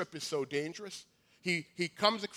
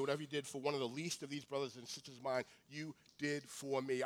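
soft quiet verse; 4 semitones lower, 9 dB quieter, faster than usual. Acted. King's soft closing verse.

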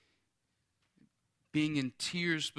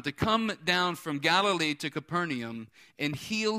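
raised, punchy preacher delivery; emphatic preaching; 3 semitones higher, 4 dB louder than usual. Real, not acted. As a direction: drive each phrase home to the congregation. Preaches with rising force.

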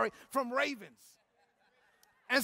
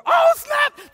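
surprised exclamation; 14 semitones higher, 4 dB louder than usual. Real, not acted. Sudden revelation in sermon.

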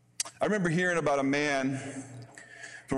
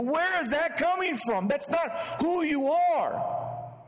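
high, astonished voice, slower at the end; amazed onlookers; slower than usual. Retold or imitated. Friends marvelling at the pastor's new fruit, astonished high voice. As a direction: play the puzzled friend who can't believe it.

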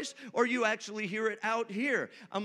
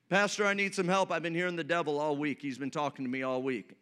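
rushed retold plea, trailing lower; retold worried counselee; 3 semitones lower, faster than usual. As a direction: rattle it off like someone seeking help. Counselee pleading to the pastor, retold.

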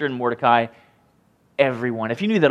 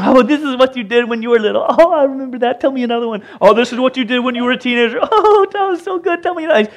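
gushing storytellers; 8 semitones higher, 4 dB louder than usual. Retold or imitated. Servants reading king's deeds.

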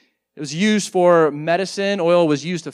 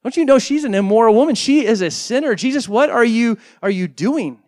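louder, higher, scandalized challenge; indignant Pharisee; 4 semitones higher, 5 dB louder than usual. Retold or imitated. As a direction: demand it like an outraged host. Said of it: "who says".

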